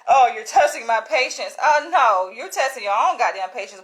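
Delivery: loud retold exasperation and comeback; acted-out quarrel. Acted quarrel with impatient officer.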